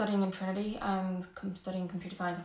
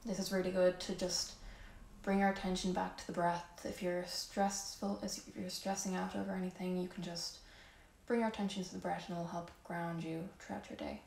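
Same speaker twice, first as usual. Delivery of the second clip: calm yoga-teacher voice, softer than chatting; guided yoga breathing; 7 dB quieter than usual. Real, not acted. Yoga teacher guiding the class to notice their breath, calm and soft. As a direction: ease them gently into the breath, unhurried.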